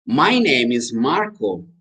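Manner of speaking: slow, careful teacher demo; measured English lesson answer; slow model answer. Shown as a demonstration. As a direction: say it slowly for learners to repeat.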